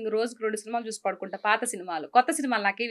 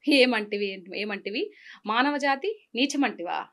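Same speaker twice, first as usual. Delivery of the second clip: fiery theatrical declamation, swelling to a cry; film dialogue delivery. Pretend. Actress performs a famous film speech on request, theatrical declamation. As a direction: hurl the mythological challenge with full pride. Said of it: "ఒక్కటి వదలండి".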